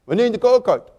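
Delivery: slurred, mumbled name with a speech impediment. Retold or imitated. Preacher imitating Carl repeating his name, slurred. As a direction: mash the words together as Carl. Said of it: "had a horrible speech impediment".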